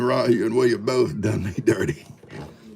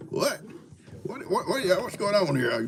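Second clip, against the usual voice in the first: voicing Jake; 11 semitones higher, 3 dB quieter than usual. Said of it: "He thought".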